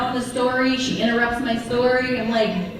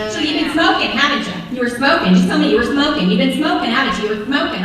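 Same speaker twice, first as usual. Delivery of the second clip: interrogating mom; faster than usual. Retold or imitated. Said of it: "She talks like this as well".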